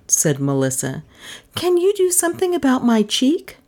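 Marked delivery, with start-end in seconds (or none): 1.5-3.6 much higher-pitched heroine voice; high, put-on client's voice; voiced female client. A narrator's reading. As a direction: pitch it high, asking for help.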